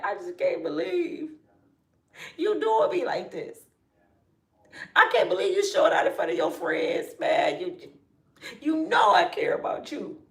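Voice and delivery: high, wounded, mock tearful plea; fake hurt girlfriend. Woman faking tears to an angry caller, copying her brother. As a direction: fake cry to him like she's heartbroken. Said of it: "thought about what my brother did".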